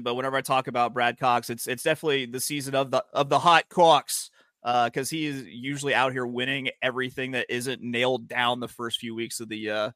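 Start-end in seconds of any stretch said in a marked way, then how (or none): 1.5-4.3 put-on Boston accent. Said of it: "I have to say it with a Boston accent".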